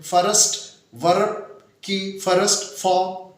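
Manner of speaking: फर्स्ट as fa-rast, वर्ब as va-rab; wrong added vowels. Shown as a demonstration. Teacher imitating many people's mistakes, extra syllables in each word. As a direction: split वर्ब and फर्स्ट into two beats each. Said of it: "ये बिल्कुल दोनों लफ्ज़ गलत हो गए".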